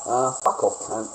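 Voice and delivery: "fuck off, cunt" snapped out loud; loud, heated dismissal. Real, not acted. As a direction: bark it back at the chat. Angry retort at chat.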